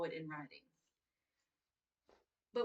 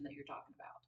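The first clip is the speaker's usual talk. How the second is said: 1 whisper; 6 semitones lower, 7 dB quieter than usual. Real, not acted. Teacher trailing off whisper.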